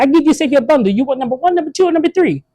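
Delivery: put-on high, lightly accented pitch-woman; a hammed-up accented saleswoman; mock Asian lady. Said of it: "Imagine if we had an Asian lady".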